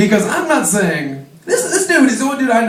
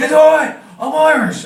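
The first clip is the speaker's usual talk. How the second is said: mock Irish excuse; 8 semitones higher, 5 dB louder than usual. Drunk repeating his excuse.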